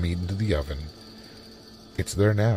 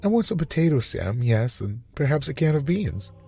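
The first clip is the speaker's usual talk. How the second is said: peculiar forced voice; 9 semitones higher than usual. A narrator's reading. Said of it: "The voice sounded peculiar".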